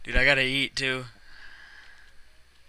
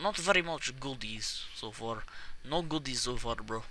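lightly put-on Russian accent. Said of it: "Why are you doing Indian accent?".

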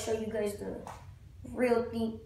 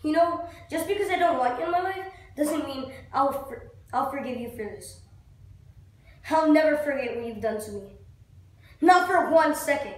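acted resentment. First take of acted vow, flubbed.

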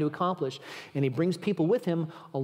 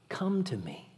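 whispered invitation; 5 dB quieter, slower than usual. Acted.

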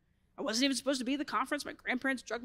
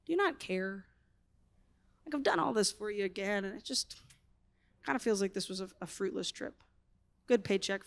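grumbling; 3 semitones lower, 4 dB quieter than usual. Retold or imitated. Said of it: "I just kind of grumbled to the Lord".

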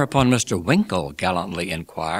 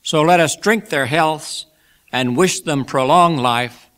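raised, high closing toast; genial Pickwick, toasting; 5 semitones higher, 5 dB louder than usual. A narrator's reading. Pickwick bids guests drink to couple, raised genial toast. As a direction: lift your voice to bless the couple.

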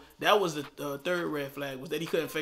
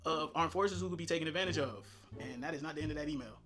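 chipmunk voice; 6 dB quieter, faster than usual. Pretend. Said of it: "chipmunk voice is starting now".

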